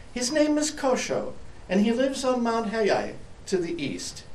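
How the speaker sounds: high light bird voice; little bird voice. Acted. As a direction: keep it high and birdlike. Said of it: "A bird flying by".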